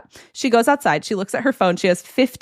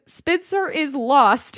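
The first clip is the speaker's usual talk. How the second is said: slow all caps; 3 semitones higher, slower than usual. Shown as a demonstration. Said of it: "in all caps".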